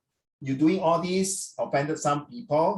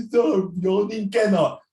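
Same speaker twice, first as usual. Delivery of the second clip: mock scolding; 3 semitones higher, 4 dB louder, slower than usual. Real, not acted. Teacher scolds student for yawning.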